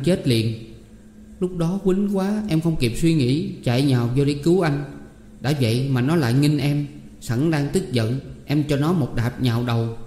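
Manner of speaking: lightly voiced anxious young woman; distressed Tám Én. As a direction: recount the fight with mild agitation. Tám Én tells what happened. (giọng cô gái kể lể lo lắng)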